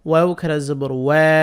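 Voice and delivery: last "ওয়া" held long; "ওয়া" with a prolonged aa vowel; one-alif lengthening. Shown as a demonstration. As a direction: spell "ওয়াও খারা জবর ওয়া", stretching the final "ওয়া". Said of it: "এখানে এক আলিফ টানবো".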